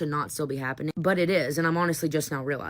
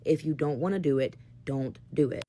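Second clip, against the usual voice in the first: resigned giving in; 2 semitones lower than usual. Retold or imitated. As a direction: give up and let them win. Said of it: "Okay, you win".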